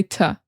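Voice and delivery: "ta" with a short neutral vowel; unstressed "ta" for "to"; weak "to". Shown as a demonstration. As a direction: reduce "to" to a soft "ta". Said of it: "instead of saying to, they say".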